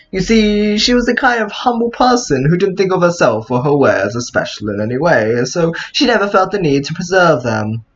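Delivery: theatrical read with swooping pitch; character story narration. Pretend. Player reading how the shop owner was persuaded, character narration. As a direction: tell the backstory as a storybook character. Reads game character's backstory.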